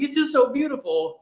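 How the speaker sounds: very high, gushing falsetto; mock tearful gush. Host mimics his own teary reply to his wife, a high falsetto gush. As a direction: squeak it out like you're welling up. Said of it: "I'm like".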